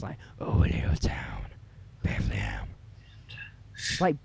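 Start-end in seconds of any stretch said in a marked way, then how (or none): 0.4-2.7 deep gravelly low whisper; gruff voice of a famous singer. Retold or imitated. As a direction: growl it low and rough like the singer. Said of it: "Him with his gruff voice".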